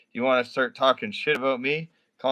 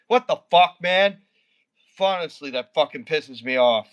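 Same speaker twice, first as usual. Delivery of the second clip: higher, heated rant at a viewer; real anger; 6 semitones higher than usual. Real, not acted. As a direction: vent the real rage, pitch up. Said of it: "You really got me mad now".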